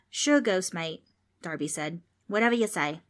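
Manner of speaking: a lightly voiced kid from down under; curious young Australian; cheeky Aussie kid. Darby humors the ghost.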